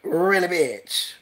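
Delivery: Really, bitch drawn out slowly; slow drawn-out mock. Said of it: "and she said".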